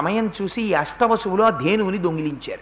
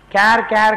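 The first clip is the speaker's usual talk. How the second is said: baby crying imitation. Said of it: "క్యార్ అని ఏడుస్తూ".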